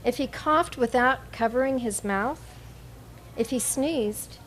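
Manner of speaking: measured poem recital with pauses between lines; poetry reading. Acted. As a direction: read each image evenly, letting it settle. Begins reading third poem.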